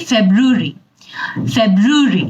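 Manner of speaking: British ফেব্রুয়ারি said as feb-ru-ri; British English. Shown as a demonstration. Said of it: "British English যদি আমরা follow করি". (British উচ্চারণে ফেব্রুয়ারি)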